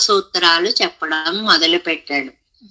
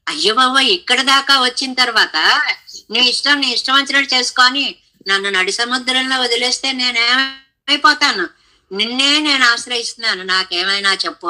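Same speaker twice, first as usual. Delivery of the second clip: wailing plea; 4 semitones higher, faster than usual. Retold or imitated. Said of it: "అని మూడవ ఏడుపు".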